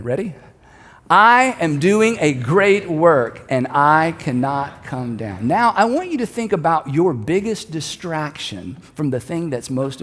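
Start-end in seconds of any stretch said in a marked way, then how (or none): 1.1-5.5 very slow, measured chant-like speech, dropping at the end; leading a group recitation. Real, not acted. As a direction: pace it for a congregation to join in. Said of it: "say this again".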